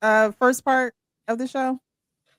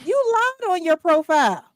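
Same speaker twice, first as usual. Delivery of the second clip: shocked accusation; 8 semitones higher, 3 dB louder than usual. Acted. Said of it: "we have to act again".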